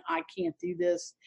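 a soft, breathy, unvoiced murmur of giving up; despairing whisper. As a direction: whisper it to yourself, defeated. Despairing thought before dropping out.

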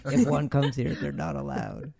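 hissy snake-man creature voice, quick. Acted. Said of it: "That's my Snake Man voice".

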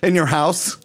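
laughing through the words. Real, not acted. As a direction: squeal with laughter mid-sentence. Laughing telling the story.

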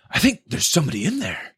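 high mocking kid voice; teenage punk. Quotes teenage punk showing off to girls.

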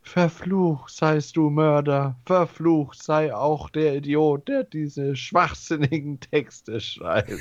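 höhere, rufende Geisterstimme; geisterhafte Stimme. Acted. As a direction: wie ein klagender Geist rufen. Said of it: "Eine geisterhafte Stimme ruft". (geisterhafter Ruf)

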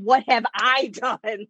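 slow mock quote breaking into a laugh; mocking through laughter. Mocking the husband's line to her co-host, laughing. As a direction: repeat his line, laughing at it. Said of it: "What the flip you mean".

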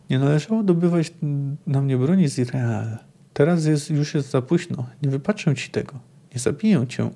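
expressive book reading, voicing the dialogue; reading a novel aloud. Lecturer reading a Sapkowski quote to listeners, in storyteller narration. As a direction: read the passage like a storyteller. Reads chapter five quote.

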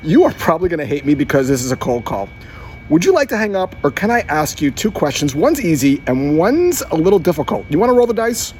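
light, teasing cold-call opener; playful. Shown as a demonstration. Salesman to a prospect on a cold call, playful. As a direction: tease the prospect gently, half joking. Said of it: "in a playful tone".

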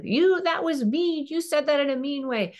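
put-on a hurt kid protesting that mum sounded mean; child complaining. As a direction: whine it like a wounded kid. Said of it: "Ask them questions about how they".

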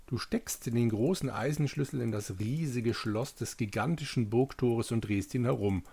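steady adventure narration; epic fantasy narrator. Acted. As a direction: read it like a fantasy tale. Reads the game text aloud. (epischer Fantasy-Erzähler)

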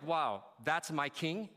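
slow, admiring wonder; awed pride. Acted. Follower looking at Jesus on the cross, awed pride. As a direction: savor it as a proud follower. Proud reaction contrasted with disappointed one.

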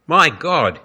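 high, loud anguished howl. A narrator's reading. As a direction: howl it up to heaven. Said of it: "he howled again".

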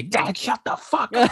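put-on high, slow teen daughter snapping at dad; a lightly voiced fed-up daughter; mock annoyed daughter. Imagined daughter bursting in on her dad, mock annoyed. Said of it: "daughter to kick in the door and say".

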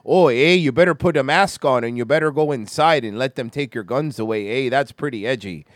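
put-on loud start in a light Canadian accent; hint of hammed-up Canadian radio host; mock Canadian shock jock. Host mimicking timid Canadian shock jocks, mock Canadian accent. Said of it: "Canadian shock jocks be like".

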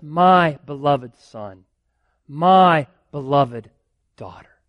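slow and gentle, each word savoured; a hushed, fond blessing; tender fatherly voice. Acted. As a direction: speak like a loving father to his child. God speaks tenderly to believers.

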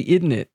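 "Isn't it?" said as "idn tit"; family isn't it. Shown as a demonstration. Explaining the family habit to a cohost, "Isn't it?" as "idn it". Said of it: "we say".

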